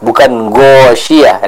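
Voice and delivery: ghasyiyah with a round Indonesian g, slow; plain g demo. Shown as a demonstration. Teacher showing the wrong g sound, slow. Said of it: "Huruf G-nya orang Indonesia".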